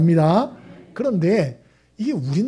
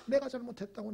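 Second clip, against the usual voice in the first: a softly spoken mother's apology, voice much softer; 4 semitones higher, 13 dB quieter than usual. Retold or imitated. Mother quietly telling her son she was wrong. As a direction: say it gently, like a mother's confession.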